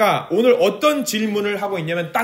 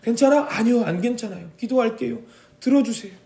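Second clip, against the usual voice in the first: higher, earnest reply; model answer to God; 6 semitones higher than usual. Shown as a demonstration. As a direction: show how to answer God. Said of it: "뭐라고 해야 돼요".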